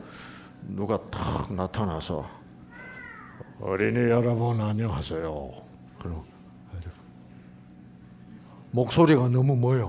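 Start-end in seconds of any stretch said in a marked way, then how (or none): 3.6-5.5 very low, soft, rumbling voice. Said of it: "저주파야".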